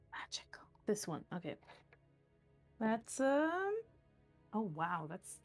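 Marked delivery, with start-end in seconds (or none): 0.1-0.6 whispering. Real, not acted. Muttering to self over dice.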